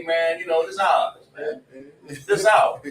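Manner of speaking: loose, emphatic street-corner vernacular; everyday Black vernacular, thrown out casually; casual Negro talk. Shown as a demonstration. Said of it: "how do niggas talk".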